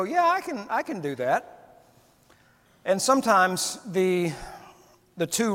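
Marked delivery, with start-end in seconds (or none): 0.0-1.8 confident self-assurance. Retold or imitated. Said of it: "a lot of it you can go".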